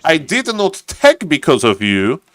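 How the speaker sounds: acting out a frustrated player; hammed-up aggrieved complaint; mock frustration. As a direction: play at being fed up, stretching the opening words.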